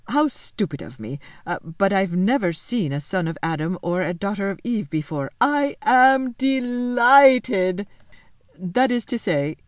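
lightly voiced fawn bursting with delight. A narrator's reading. Faun tells Lucy he is delighted, hammed-up joy.

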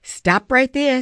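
firm interruption, drawn out; cutting in. A narrator's reading. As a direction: stop them mid-sentence. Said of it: "Savannah interrupted".

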